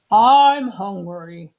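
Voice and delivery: plain hungry grumble; Mr Rogers hungry. Acted. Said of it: "he said".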